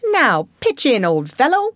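loud, hearty call to tuck in; hearty invitation. A narrator's reading. Rat heartily invites mole to eat.

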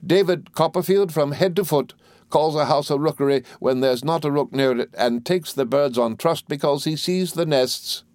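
high-pitched scolding aunt; exasperated aunt. A narrator's reading. Voices Miss Betsy.

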